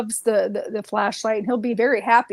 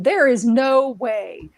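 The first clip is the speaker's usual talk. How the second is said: like Rumpelstiltskin; 4 dB louder, slower than usual. Retold or imitated. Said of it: "like Rumpelstiltskin".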